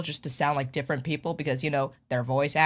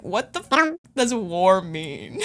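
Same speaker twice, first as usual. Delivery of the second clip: mock bafflement; 3 dB louder, slower than usual. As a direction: stretch it out in playful disbelief. Acts out her baffled reaction.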